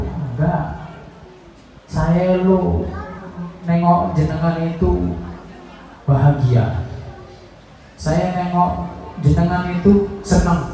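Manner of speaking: gently, moved to tears; tender reply. Acted. Prophet answering, moved.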